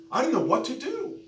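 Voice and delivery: high, loud imitated wail of helplessness; retold desperate cry. Preacher acts out young woman's confusion, loudly desperate.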